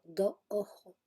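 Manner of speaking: "do ojo" with no final S sounds; dropped final S. Shown as a demonstration. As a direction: say "do ojo" swallowing the S. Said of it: "cuando no se pronuncia".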